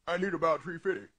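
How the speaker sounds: low, soft, fast monster line; the monster slips out of the boy; lightly voiced low monster. Boy-monster asks for money.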